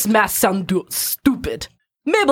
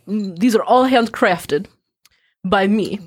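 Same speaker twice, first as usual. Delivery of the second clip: lightly voiced Russian merchant accent; a hint of a thick Russian shopkeeper; mild mock Russian accent. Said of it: "This is my horrible Russian accent".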